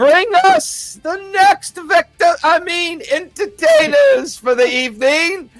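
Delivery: very high, huge, arena-filling booming announcer voice. Game master voicing a robed figure calling out across the arena, huge booming voice. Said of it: "the huge voice booms out across the arena".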